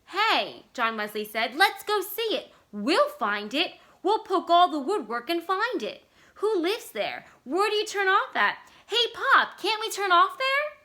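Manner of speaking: put-on high, loud, eager kid's plea; shrill-free eager kid pleading to turn off; excited child begging. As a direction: beg Pop like a thrilled child. Excited child begs to visit.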